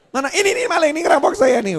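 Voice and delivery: loud high panicked call for help; mock alarm. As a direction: cry out as if being robbed. Pura-pura teriak dirampok. (berteriak panik minta tolong)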